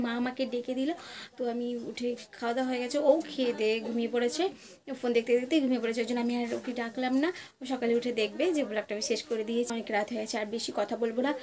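quiet talk late at night so others can sleep; speaking softly. Real, not acted. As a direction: keep it soft so no one wakes. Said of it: "আস্তে আস্তে কথা বলছি".

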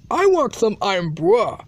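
"Irn-Bru" said as "iron bruh"; mispronounced Irn-Bru. Acted. Customer asking for the drink, mispronounced "Irn-Bru" ending in "bruh". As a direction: end "Irn-Bru" on an open "brah". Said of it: "No, it pronounced Irn-Bru".

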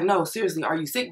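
firm, serious question; insistent. Retold or imitated. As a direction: ask it again, dead serious. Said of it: "And I'm like".

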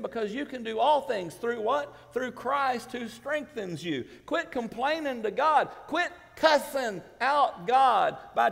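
loud, high preacher's shout; real excited shout from the pulpit. Real, not acted. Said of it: "I get excited sometimes".

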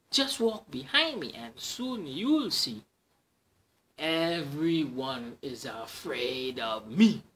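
swagger, stretching the last line; boasting mouse. Acted. Mouse brags to the Gruffalo, slow proud swagger.

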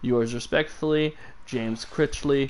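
calm, even letter reading; soothing reading voice. Acted. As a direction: read it like an audiobook narrator. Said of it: "I have such a soothing voice".

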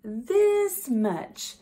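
high, loud eager cry; excited little hare. Acted. Little hare boasting to big hare, eager high cry. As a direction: show off with all your might.

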